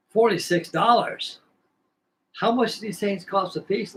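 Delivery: stunned repeat of the total; incredulous. Retold or imitated. Shocked at the price.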